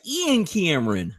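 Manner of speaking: "Ian Cameron" drawn out slowly like the host; impression of Drew. Donnie showing off the host's name call, slow. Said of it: "the easiest one to do, Drew, is the Ian Cameron one".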